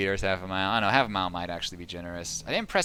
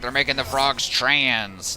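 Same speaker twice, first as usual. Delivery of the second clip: mock battle cry; 3 semitones higher, 5 dB louder, slower than usual. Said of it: "that whole battle cry".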